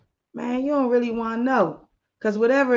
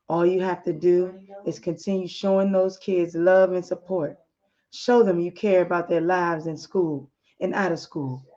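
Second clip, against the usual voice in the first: lower, calm and reassuring; 3 semitones lower than usual. Acted. Husband calms his upset wife over the phone, calm and reassuring. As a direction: soothe her gently like a loving husband. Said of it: "In a calm voice".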